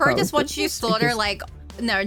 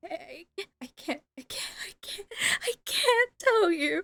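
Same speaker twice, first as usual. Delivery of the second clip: terrified, frightened stammering; 8 semitones higher, 4 dB quieter than usual. Voicing a captive who looks around and can't say what happened: terrified stammering. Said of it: "Kinda look around, terrified".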